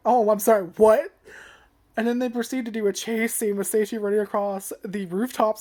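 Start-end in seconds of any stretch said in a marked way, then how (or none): 0.1-1.1 stunned disbelief. Retold or imitated. Reviewer mimicking her own reaction to the scene, in loud disbelief. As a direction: blurt it out in shocked disbelief.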